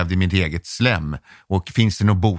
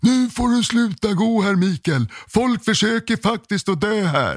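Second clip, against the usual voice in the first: acted, very high, shrill scolding shout; 13 semitones higher than usual. Retelling what a woman yelled at him in the corridor, retelling her yelling. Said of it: "skrek hon åt mig".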